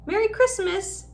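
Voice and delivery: sleepy. A narrator's reading. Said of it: "said Ron sleepily".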